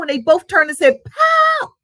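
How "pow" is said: high, loud startled yelp; startled shout. Acted. Two kangaroos scare each other, loud startled shout. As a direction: blurt it out in sudden fright.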